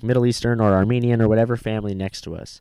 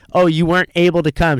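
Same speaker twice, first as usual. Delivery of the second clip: mock sympathetic woman; 5 semitones higher than usual. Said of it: "She goes".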